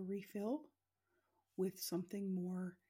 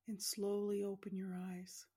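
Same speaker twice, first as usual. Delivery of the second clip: whisper. Acted. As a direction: whisper the last cue gently. Whispered closing cue.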